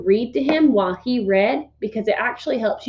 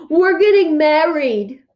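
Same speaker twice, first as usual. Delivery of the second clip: put-on Fudge's little-kid voice; 6 semitones higher, 6 dB louder, slower than usual. Fudge announces at dinner.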